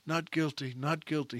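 a quiet, defeated "Not guilty, not guilty". Retold or imitated. A beaten juror finally giving in, retold softly. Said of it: "but a little softer".

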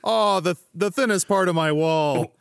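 high, loud wailing over his wall; anguished villain. Acted. Villain wailing at the heroes over his wall. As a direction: wail like a wounded librarian boss.

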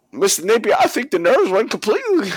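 high, put-on nervous figure; imitated movie scene voice; film character impression. Voicing the film's surgeon to Joker.

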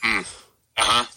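bored, flat-voiced uh-huhs; uninterested Mark. Friend mocking a bored caller, lightly imitated disinterest. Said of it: "uninterested Mark".

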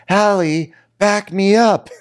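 high, loud, whiny call for backup; pleading high voice while laughing; mock whiny plea. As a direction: squeal for help from Hallie. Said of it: "So Schwartz is like".

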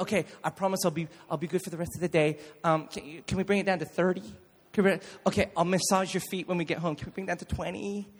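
put-on fast, soft begging kid; lightly voiced child bargaining; pleading child. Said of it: "I'd be like".

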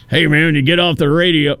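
folksy country caller voice; lightly put-on country accent. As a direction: imitate a country old boy on the phone. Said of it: "didn't have that kind of country voice".

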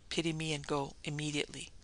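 soft, understated plea; desperate whisper. A narrator's reading. Girl begs Sam to pity her and go, desperate hushed plea. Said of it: "she whispered desperately".

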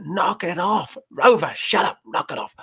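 a retold yell at Rover, fading off at the end; mock shout. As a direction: imitate an owner snapping at a barking dog. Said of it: "and we shout".

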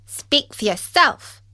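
a prickly stranger in the dark; peculiar voice. Acted. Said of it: "an even more peculiar voice".

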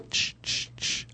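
soft whispered shushing; librarian shushing whisper. Real, not acted. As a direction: hush them with a whispered shh. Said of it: "Stop shushing me".

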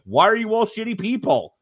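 put-on high, indignant kid yelling at the family; mocking Kevin voice. Retelling Kevin's retort to his family, high indignant kid voice. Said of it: "And he was like".

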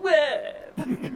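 high drawn-out "wah"; mock wail. Co-host showing how it's gonna be, mock wail. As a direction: let out a high fake wail. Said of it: "This is how it's gonna be like".

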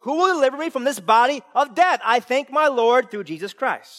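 loud, high preacher's cry; fiery preaching. Acted. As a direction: preach it out with full force. Preaching at full force.

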